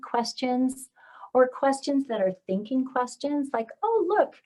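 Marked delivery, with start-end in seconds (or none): 3.8-4.3 put-on lightly excited, higher child-directed voice; starts high with a bright "oh", then eases; wondering parent. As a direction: invite a small child to look up and wonder.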